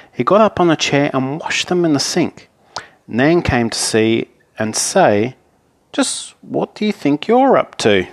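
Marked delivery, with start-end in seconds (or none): 5.9-8.1 nan's challenge. Acted. Nan questions Harry's washing.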